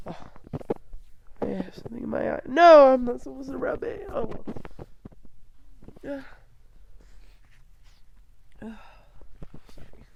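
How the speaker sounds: sick, strained voice; talking with a sore throat; lost voice. Real, not acted. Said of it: "I'm just, like, sick".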